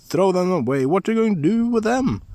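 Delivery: high, loud and dismissive; mock his silly find; scornful scoff. A narrator's reading. Brothers scoffing at Askeladd, high loud scorn.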